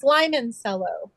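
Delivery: "limoncello" said as "lime-n-cello"; "limoncello" with "lime" up front; lime pun pronunciation. Real, not acted. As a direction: make the first part of "limoncello" rhyme with time. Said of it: "so it's lime".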